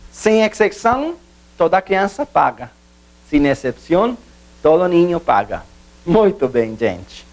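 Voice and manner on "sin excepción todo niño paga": Spanish translation of the example. Shown as a demonstration.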